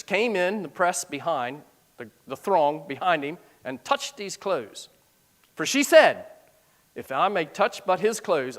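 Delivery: reading the verse aloud, measured; scripture reading. Acted. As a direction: read it like scripture from the pulpit.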